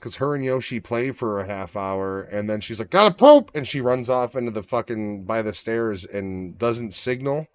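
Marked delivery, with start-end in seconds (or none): 2.9-3.5 squeaky excited dog voice, much higher and louder; voicing the dog. Owner voicing the puppy in a high squeal. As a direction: blurt it like an urgent puppy.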